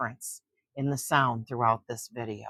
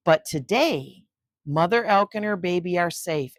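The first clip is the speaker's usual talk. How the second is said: story reading; 3 semitones higher than usual. A narrator's reading. Reads book jacket blurb.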